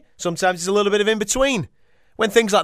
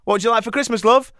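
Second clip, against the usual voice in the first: higher, coy asking voice; a lightly voiced wife asking sweetly; mock wife voice; 4 semitones higher, faster than usual. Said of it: "Man asks the same question to the woman".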